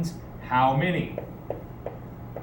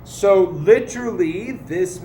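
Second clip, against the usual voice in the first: slow word by word; 4 semitones higher, slower than usual. Shown as a demonstration. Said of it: "tienes is do you have".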